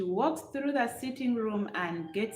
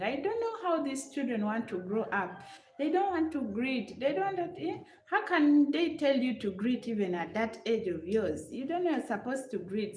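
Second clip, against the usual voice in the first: higher-pitched grumbling rant; a hint of an exasperated mother nagging; complaining; 4 semitones higher than usual. Mother complaining to her guest about rude children, lightly voiced grumble.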